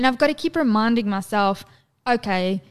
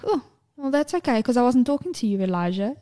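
imitating mother's retort; 3 semitones higher, faster than usual. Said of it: "And I was like".

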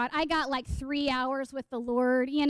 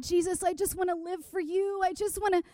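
earnest desire; 4 semitones higher than usual. Retold or imitated. Teen self prays to Jesus about her calling, earnest pleading. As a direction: pray it like a zealous teenager. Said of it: "This, like, earnest desire".

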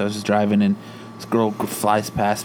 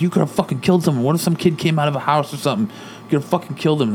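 fast, higher mock yelling at the reckless kid; retold yell; 5 semitones higher, faster than usual. Dad yelling at the kid who sped through the subdivision, fast raised mock yell. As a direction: replay dad's rant, quick and raised. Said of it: "just yelling at him".

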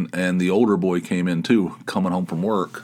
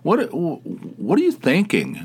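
high-pitched, stammering mock disbelief; incredulous; 10 semitones higher than usual. Tony asking what speaker was thinking, incredulous. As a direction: demand an explanation, voice way up. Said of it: "she was, like, incredulous".

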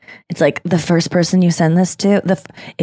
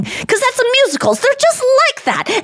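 mock musical theatre. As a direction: parody a jazz-hands Broadway performer. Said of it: "jazz hands about everything".

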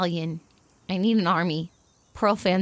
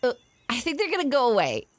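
hiccupping while talking; hiccups; 6 semitones higher, faster than usual. Real, not acted. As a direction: talk through small hiccups. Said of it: "case of the hiccups".

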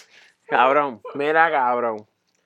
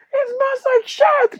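very high, very slow squeezed voice; hammed-up disgusted squeal; mock disgust; much slower than usual. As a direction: stretch it out in disgust. Retold disgusted reply.

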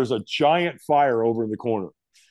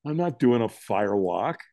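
dawning dread; slower than usual. Retold or imitated. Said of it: "I went".

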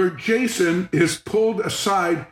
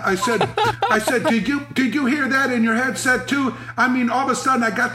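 laughing; 5 semitones higher than usual. Real, not acted. Laughing while retelling.

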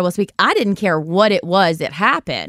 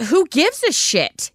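high, slow, incredulous scorn; irate; 9 semitones higher, slower than usual. Real, not acted. Friend's mom recalling angry call, high slow scorn. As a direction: let the outrage spill out slowly.

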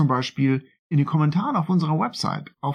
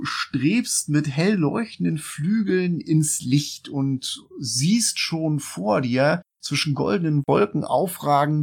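dramatic narration. A narrator's reading.

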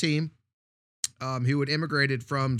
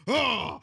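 loud, raised-pitch mock "oh"; imitated outburst; 7 semitones higher, 5 dB louder than usual. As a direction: imitate a coach's sudden exclamation. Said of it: "he's just like".

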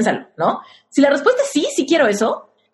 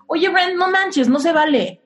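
mild mock complaint. Shown as a demonstration. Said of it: "Me puedo pelear masculinamente y le puedo decir".

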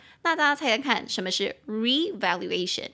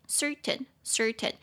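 certain with CER stressed; stress on first syllable; 3 dB quieter, slower than usual. Shown as a demonstration. Teacher models certain for learners, stressing CER. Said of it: "中音节在第一音节".

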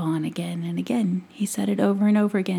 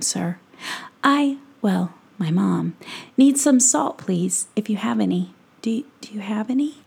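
put-on timid young boy. Lightly voiced Tom asking the peddler for salt, timid and halting. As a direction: stumble politely through the request, a touch nervous.

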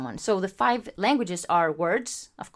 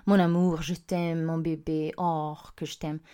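lovely French; 2 semitones lower than usual. Retold or imitated. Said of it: "it sounds just lovely".

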